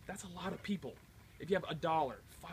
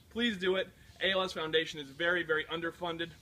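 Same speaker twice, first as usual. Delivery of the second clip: in ice cold water; 4 semitones higher, 6 dB louder than usual. Real, not acted. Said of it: "That's really cold".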